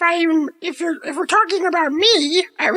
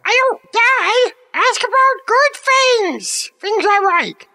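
exasperated pleading; 5 semitones higher, slower than usual. Pretend. Cat pleading to change subject.

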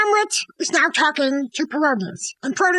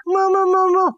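smoochy mock lover; 2 semitones higher, slower than usual. Hamlet's letter, mooing kisses.

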